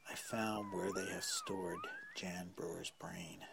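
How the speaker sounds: slow awed whisper. Real, not acted. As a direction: whisper the secret slowly. Secret discovery of brain.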